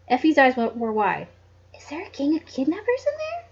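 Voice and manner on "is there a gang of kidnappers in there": high, soft frightened question; timid. Acted. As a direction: ask nervously. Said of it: "she asked timidly".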